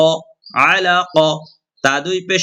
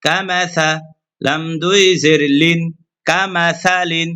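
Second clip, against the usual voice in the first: Quran spelling drill. Shown as a demonstration. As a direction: spell out each syllable for students like a recitation lesson. Teacher chants Quran spelling drill. (কুরআন শিক্ষার সুরেলা বানান পাঠ)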